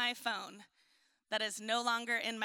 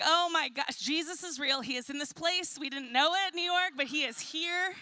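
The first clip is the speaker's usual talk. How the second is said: joyful relief; 2 semitones higher than usual. Retold or imitated. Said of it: "I was like".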